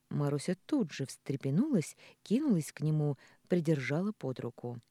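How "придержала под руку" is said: usual speaking voice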